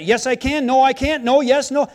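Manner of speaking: imitating short, businesslike replies; short and sweet. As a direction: rattle off curt little answers. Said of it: "I'm very short and sweet".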